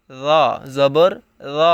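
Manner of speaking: র said soft and light; don't harden the র. Shown as a demonstration. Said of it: "নরম হবে এখানে।".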